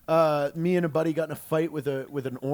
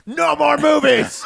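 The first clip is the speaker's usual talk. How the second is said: loud, high, slow outburst; angry shout; 9 semitones higher, 9 dB louder, slower than usual. Retold or imitated. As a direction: snap it like a furious teacher. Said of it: "she was like".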